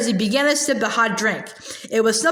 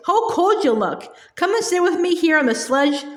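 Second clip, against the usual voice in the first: sweet different voice. Acted. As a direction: switch to a falsely kind tone. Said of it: "she said in quite a different voice".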